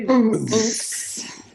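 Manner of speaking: Boots with an explosive B like a kick drum; explosive bass drum. Shown as a demonstration. Coach demos the beatbox bass drum, explosive Boots. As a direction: pop the B in Boots hard. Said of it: "So do it again".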